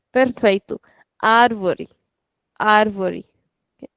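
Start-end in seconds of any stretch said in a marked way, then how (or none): 1.2-3.3 "Árvore" with a long first "Ár"; stretched accented syllable. Shown as a demonstration. Teacher repeating the word for students, stretched on ÁR. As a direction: stretch the ÁR each time in "Árvore". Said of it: "put stretch on the accent itself".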